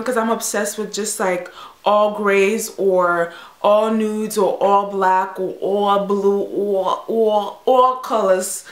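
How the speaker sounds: put-on light New York accent, drawn out. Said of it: "that was a New York accent I tried".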